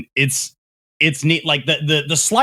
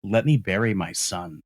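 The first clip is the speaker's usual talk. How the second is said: grieving plea; 5 semitones lower, 7 dB quieter than usual. Retold or imitated. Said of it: "just says".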